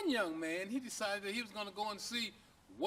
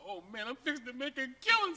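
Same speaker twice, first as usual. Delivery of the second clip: excited; 5 semitones higher, 6 dB louder than usual. Acted. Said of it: "So he's excited".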